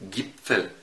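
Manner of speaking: جيبفل with a hard G; German G. Shown as a demonstration. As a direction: say جيبفل starting with a hard G, slowly. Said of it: "هاجي مثلًا أقول لك". (جيبفل بجيم مصرية)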